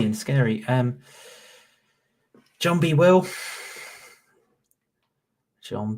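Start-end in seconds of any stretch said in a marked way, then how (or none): 2.6-3.3 high announcer read. Shown as a demonstration. Reading names off screen.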